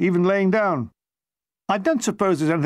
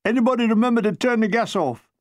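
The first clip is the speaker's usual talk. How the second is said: joking voice in the dark; 5 semitones higher than usual. Acted. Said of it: "a voice in the dark".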